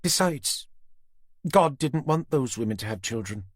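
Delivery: high, cold threat; Susan's menacing voice. A narrator's reading. Susan threatening Tanner with the knife at Jenny's throat. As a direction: savour the threat.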